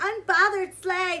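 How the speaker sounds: mocking, high, loud, gushing fan voice.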